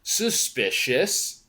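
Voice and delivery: drawn-out "Huh", then a slow, rising "suspicious"; leaning in, mock suspicion. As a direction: play a suspicious double take. Mimics own suspicious reaction.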